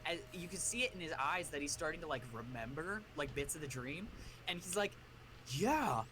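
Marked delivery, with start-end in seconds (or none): 5.5-6.0 retold dawning memory. Retold kid dimly recalling a dream.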